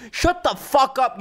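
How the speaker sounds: lightly voiced angry shopper, drawn out; imitating an angry shopper. Mimicking the guy yelling at the woman, slow mock yell. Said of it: "The guy yelling at the woman saying".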